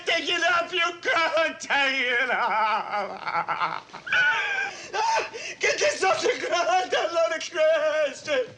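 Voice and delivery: slow, shouted pleading to the pilot; panicked shouting. Acted. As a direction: yell to pull the plane up. Begging the pilot.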